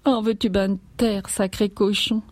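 high, tearful scolding; acted exasperated farmwife, high-pitched; angry scolding. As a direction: order the baby to shut up, upset. Mother snaps at crying baby.

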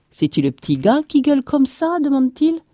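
high, loud rustic question; irritated farmer. A narrator's reading. Farmer asking about the screaming child, irritated. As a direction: ask it loudly, pitched right up.

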